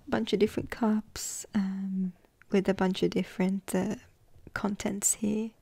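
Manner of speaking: hushed whisper, card by card; ASMR whisper. Acted. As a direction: whisper as if not to wake anyone.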